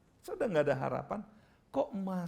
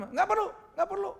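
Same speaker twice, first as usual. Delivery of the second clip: high, raised-voice brush-off; imitated angry protest; angry refusal; 5 dB louder, faster than usual. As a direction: refuse the pastor's prayer in an acted temper. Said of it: "Dia marah-marah di situ".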